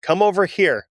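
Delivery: put-on lightly done German-accented call. A narrator's reading. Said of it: "shouted in English with a strong German accent".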